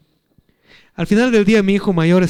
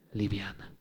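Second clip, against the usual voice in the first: ordinary talk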